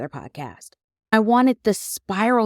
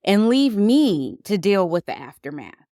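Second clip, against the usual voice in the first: ticked off; 4 semitones higher than usual. Retold or imitated. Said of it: "full-blown ticked off".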